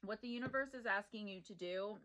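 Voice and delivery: words through a sip of drink; drinking while talking. Real, not acted. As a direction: talk with a drink at the lips. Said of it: "sorry, I'm drinking my Red Bull".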